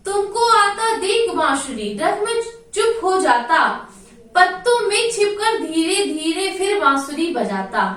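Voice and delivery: sing-song poem recital, lightly chanted; poem recitation. Acted. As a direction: recite the verse to the class in a lilting chant.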